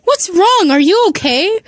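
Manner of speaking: high-pitched, concerned questioning; gentle concern. A narrator's reading. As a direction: ask anxiously if they're all right. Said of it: "the gentleness she would speak with".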